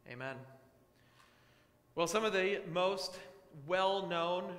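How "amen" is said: prayer. Acted. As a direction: pray it steadily to God. Prayer opening the sermon.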